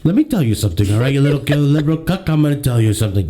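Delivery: lightly voiced Trump, boastful and taunting; a hint of Trump mocking his liberal co-host; Donald Trump impression. Host mocks the liberal co-host as Trump, lightly voiced Trump. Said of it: "It's me, the Donald".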